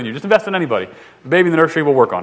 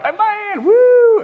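much higher, loud whooping call; hyped-up southern cheer; 5 dB louder, much slower than usual. Retold or imitated. A southern friend at camp cheering during service, hyped shout. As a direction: whoop it up like a fired-up worshipper. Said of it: "he was like".

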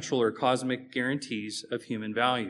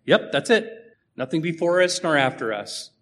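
voicing unbelievers; 4 semitones higher, 6 dB louder than usual. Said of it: "They say things like".

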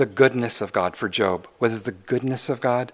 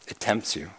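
softer, falling "It tempts you."; hushed, heavy warning; 2 semitones lower, 9 dB quieter than usual. Shown as a demonstration. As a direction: drop the voice and let "tempts" fall. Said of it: "repeats the phrase twice".

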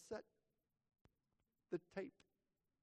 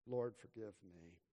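softer, lower confessing inner voice; imagined listener's thought; 3 semitones lower, 4 dB quieter than usual. Retold or imitated. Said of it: "Are you out there thinking".

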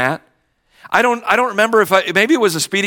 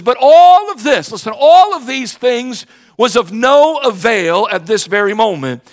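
preaching burst; 2 semitones higher, 3 dB louder than usual. Real, not acted. Pastor stressing to congregation that wealth was useless, louder. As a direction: drive the point home.

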